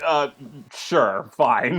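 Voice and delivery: low, flat-toned "sure, fine"; shrugging casting director. Retold or imitated. Imitating the filmmakers accepting her, low resigned shrug. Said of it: "they were just like".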